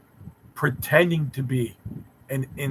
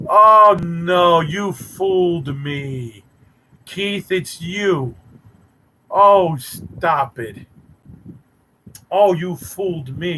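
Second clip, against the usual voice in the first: mock shock; 2 semitones higher, 5 dB louder, much slower than usual. Mock shock at being fooled.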